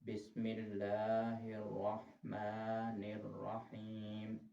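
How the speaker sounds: very slow बिस्मिल्लाह; slow recitation. Shown as a demonstration. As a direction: draw each word out. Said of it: "तस्मीह". (बहुत धीमी तिलावत)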